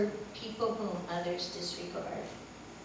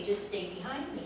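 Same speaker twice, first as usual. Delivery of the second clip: said through a soft laugh; laughing quip; 4 dB quieter than usual. Retold or imitated. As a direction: toss it off with a giggle. Diane's cheeky answer.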